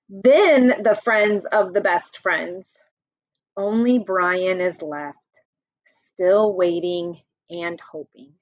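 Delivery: lively picture-book read-aloud; reading to children. Acted. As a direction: read it out to the class like a storybook. Teacher reads picture book to class.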